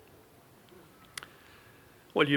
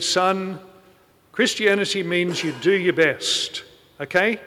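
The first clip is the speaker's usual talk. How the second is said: louder, higher mock pompous host; pompous British man; 3 semitones higher, 4 dB louder than usual. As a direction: lay down the law like a pompous party host. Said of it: "a very pompous British man".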